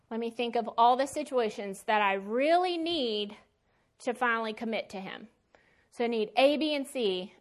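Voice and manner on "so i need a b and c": sarcastic. Pretend. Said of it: "I'm being sarcastic here".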